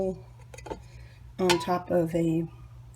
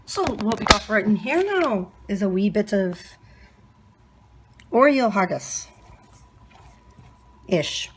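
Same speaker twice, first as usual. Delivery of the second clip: playful mock Scottish accent, louder; put-on accent; 5 dB louder than usual. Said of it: "I don't know why I'm doing the accent".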